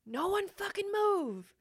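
high-pitched, strained retold yell; cop's scream. Cop screaming orders at protesters on the ground, mock scream. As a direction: imitate a cop yelling a command. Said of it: "I hear the cop screaming".

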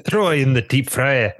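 hammed-up Scottish accent. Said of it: "do the Scottish accent".

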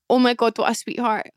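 ordinary delivery

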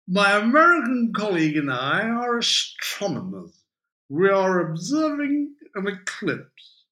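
loud, high, grandly over-articulated claim; high-flown tipsy mock dignity; drunk playing respectable. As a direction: declare it pompously to fool the policeman.

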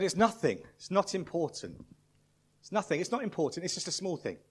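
lightly voiced dad playing it down; dismissive dad. Embarrassed dad to crying son in front of students, dismissive.

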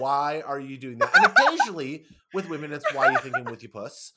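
giggling quote; laughing through it. Real, not acted. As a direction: crack up while quoting it. Laughing while quoting tropes.

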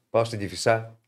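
Κηφισά ending in stressed "sa", not "sia"; quoted local saying, Κηφισά without its "ia"; colloquial Κηφισά pronunciation. Retold or imitated. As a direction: say Κηφισά the old folksy way, dropping the "i". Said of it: "Πώς λέμε Κηφισά".

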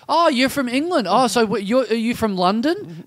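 high, over-familiar questioner; lucid weirdo. Retold or imitated. Weirdo quizzing a stranger on the tram, high over-familiar voice. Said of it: "just non-stop with the questions".

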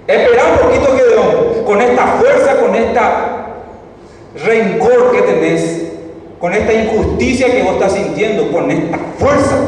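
más alto y fuerte, arrastrando lo clave; ángel enfático. Retold or imitated. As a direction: insiste con energía, casi predicando. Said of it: "le dice el ángel". (el ángel le insiste a Gedeón, enfático)

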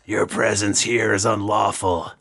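lightly voiced stern guard; a hint of a gruff lawman making an arrest. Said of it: "you hear a gruff voice say".

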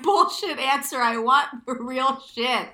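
slow, loud, every word pressed; laughing then emphatic demand; insistent. Real, not acted. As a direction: lean hard on real shit. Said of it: "insistent emphasis".

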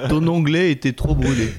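slow and deliberate; final answer. Shown as a demonstration. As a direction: announce it like a final verdict. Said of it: "Ma réponse définitive".

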